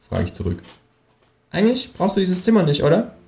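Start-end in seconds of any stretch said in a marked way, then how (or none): 1.5-3.2 hoch gesetzte, freche Känguru-Stimme. Acted. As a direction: das Känguru schnoddrig und höher sprechen. Känguru fragt lauernd. (hohe, freche Känguru-Stimme)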